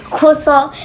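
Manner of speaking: "Croissant" said kwassan, French style; a lightly mocking French-style "Croissant"; mom's croissant. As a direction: mimic how mom says "Croissant". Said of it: "That's how she says croissant".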